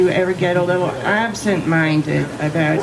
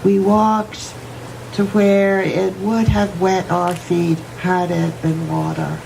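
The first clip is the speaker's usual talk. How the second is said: poem reading. Acted. Reads poem aloud.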